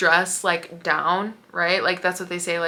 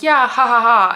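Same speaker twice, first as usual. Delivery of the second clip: forced awkward ha ha ha, high and loud; fake polite laugh; 4 semitones higher, 9 dB louder than usual. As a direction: laugh along without meaning it. Sister's awkward laugh after translating.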